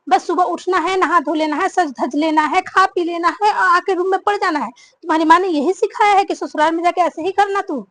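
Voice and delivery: loud, scornful listing of her laziness; berating mother-in-law. Acted. Mother-in-law loudly berates the new bride for being lazy. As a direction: tear into her for idling all day.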